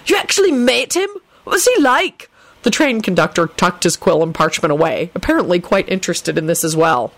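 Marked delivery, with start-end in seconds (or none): 0.1-2.3 high, eager questioning; excited, high-pitched curiosity; delighted holler. A narrator's reading. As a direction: ask it in thrilled disbelief, pitched up. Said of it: "Benji hollered delightedly".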